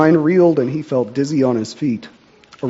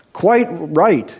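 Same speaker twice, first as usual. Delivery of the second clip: mock yell, a little higher; mild yell; 5 semitones higher than usual. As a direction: call out in agreement. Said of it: "yelled Grizzleneck".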